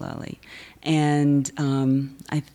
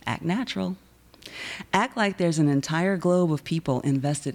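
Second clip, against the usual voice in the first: rhythmic anaphora, each Act line set apart by pauses; poetry reading; 2 semitones higher than usual. Acted. Poet honoring Connecticut marriage law, pointed rhythmic recital. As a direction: deliver each command crisply, let the pauses land. Performs marriage poem after title.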